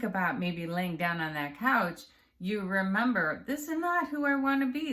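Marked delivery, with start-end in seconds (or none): 3.5-4.9 firm self-talk. Pretend. Imagined self-talk resisting couch.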